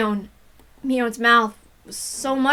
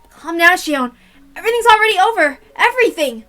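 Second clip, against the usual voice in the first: calm voice; 8 semitones higher, 9 dB louder than usual. Acted. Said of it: "I spoke in a calm voice".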